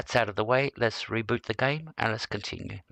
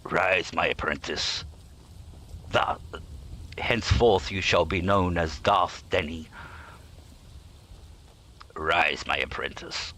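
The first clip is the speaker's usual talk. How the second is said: menacing Emperor knighting an apprentice; Palpatine; 4 semitones lower than usual. Retold or imitated. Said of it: "like Palpatine would say".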